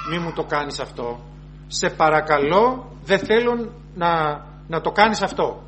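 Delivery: pleading helplessly with the insulter; begging. Shown as a demonstration. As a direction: beg him like a weak supplicant. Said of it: "όχι με την έννοια παρακλητικός".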